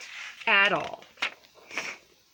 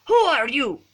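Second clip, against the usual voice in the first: loud, higher mock-gruff challenge; growling; 6 semitones higher, 9 dB louder than usual. A narrator's reading. Don Diego challenges the masked kitten, lightly growled demand. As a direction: demand it as a small dog boss. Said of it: "growled Don Diego".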